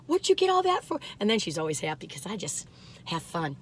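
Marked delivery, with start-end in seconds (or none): 0.1-1.0 high, teasing mock question; quoting her. She mimics her mother's question, mock teasing. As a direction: imitate her fussing about the shopping. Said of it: "she always goes".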